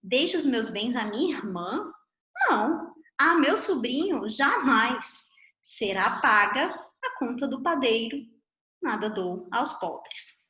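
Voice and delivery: a full stop after "jamais", so "Será paga a conta do padeiro" stands alone; "jamais." held long and closed off; baker's punctuation. Shown as a demonstration. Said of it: "O padeiro pediu a cópia do original".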